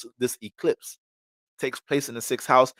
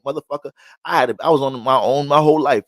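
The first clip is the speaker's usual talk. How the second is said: mild mock retort; 4 semitones higher, 8 dB louder than usual. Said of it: "She was like".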